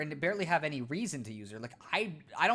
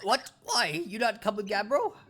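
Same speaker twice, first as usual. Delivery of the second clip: loud, simple-minded cave dweller talk; caveman Cragnon voice; 5 semitones higher, 5 dB louder than usual. Acted. Scared Cragnon hiding from the Floro Sapiens, blunt caveman voice. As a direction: bark it out like a dim, eager caveman.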